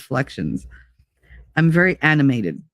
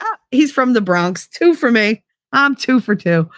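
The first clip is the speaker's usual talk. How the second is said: excited; 5 semitones higher than usual. Retold or imitated. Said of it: "I was so excited".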